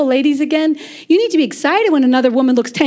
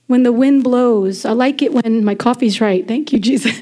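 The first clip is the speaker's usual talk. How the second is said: tender prayer; 4 semitones lower than usual. Shown as a demonstration. Models telling God what she likes.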